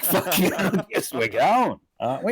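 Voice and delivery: high laughing fuck yeah; mock gleeful. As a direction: jokingly cheer along.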